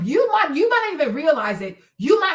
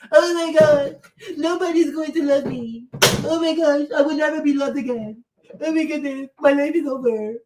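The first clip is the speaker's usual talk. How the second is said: mock loser babble. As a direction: whimper like a hammed-up sore loser. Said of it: "That loser babble shit".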